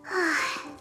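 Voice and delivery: short voiced sigh. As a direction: let out a sigh after the chase. Opponent has run away.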